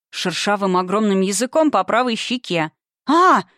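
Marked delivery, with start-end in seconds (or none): 3.1-3.4 high, loud shriek of shock; startled scream. Acted. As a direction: scream as if licked by a monster. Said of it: "заорала я".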